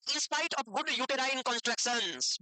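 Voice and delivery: very slow, word by word for notes; slow dictation. Shown as a demonstration. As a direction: spell it out slowly so students can write. Teacher dictates definition. (बहुत धीरे, लिखवाते हुए)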